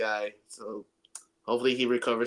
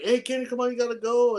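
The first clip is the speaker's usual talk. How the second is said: higher-pitched imitation of the staff calling him away; staff hurrying Kenny; 12 semitones higher, 3 dB louder, faster than usual. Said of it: "so they're like".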